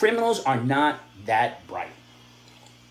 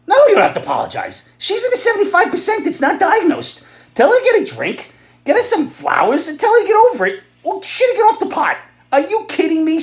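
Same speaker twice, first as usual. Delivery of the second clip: angry shout; 13 semitones higher, 7 dB louder than usual. Acted. Angry advice-column rant.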